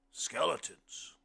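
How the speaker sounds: booming guest, slow and loud; hearty blind man. A narrator's reading. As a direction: stretch the word out big. Blind man's line in story.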